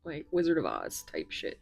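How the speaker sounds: ordinary delivery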